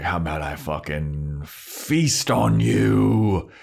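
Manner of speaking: slow, drawn-out threat; hammed-up slow vampire threat; mock vampire menace. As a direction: lean into each word like a villain. Spike threatening in retelling.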